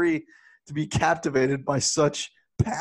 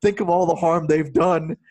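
hammed-up ranting father; 4 dB louder than usual. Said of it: "he goes".

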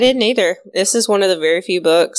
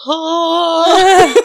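laughing; 11 semitones higher, 5 dB louder than usual. Retold or imitated. Laughing mock exclamation in role.

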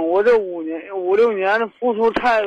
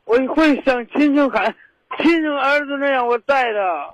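insistent, higher-pitched plea with a cry in it; worked-up pleading shout; 3 semitones higher than usual. Real, not acted. Caller insisting to the host he accepts her child, worked-up pleading. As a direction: plead at raised pitch, straining to be believed. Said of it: "别喊，别喊".

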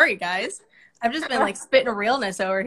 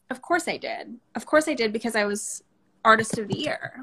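calm matter-of-fact. Retold or imitated. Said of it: "But, like".

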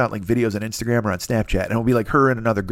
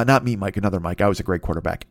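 usual speaking voice

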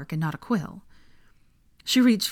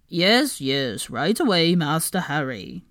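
eager servile elf; quick eager elf reply, slower end; house-elf voice; slower than usual. Acted. Kreacher voiced.

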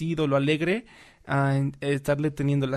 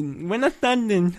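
nasal passenger voice; 4 semitones higher, much slower than usual. Retold or imitated.

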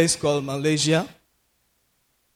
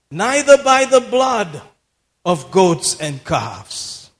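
scripture proclamation; 2 semitones higher, slower than usual. Real, not acted. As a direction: ring out the verse, then come down. Proclaims the verse once more.

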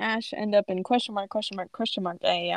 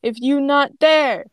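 slow, louder, indignant broken speech; lightly acted stubborn child-like complaint; mildly mad; 4 semitones higher, 5 dB louder than usual. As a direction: protest slowly with a touch of anger. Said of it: "then she seems mad".

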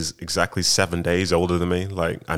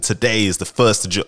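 lightly imitated news anchor, raised and louder; mock broadcast voice, pitched up and projected; newsreader delivery; 4 semitones higher, 5 dB louder than usual. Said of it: "the way that they deliver the news".

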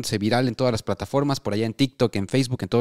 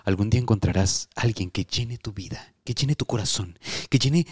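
mock tender. Mock tender dream message.

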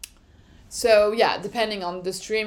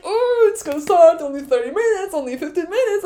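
high, loud eager countdown; buzzing pre-race anticipation; excited countdown; 7 semitones higher, 5 dB louder than usual. Retold or imitated. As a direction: count down the minutes like a fan before the race. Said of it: "you're like".

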